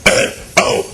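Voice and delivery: jumping jacks. Shown as a demonstration. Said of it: "the A B Cs screaming in my voice".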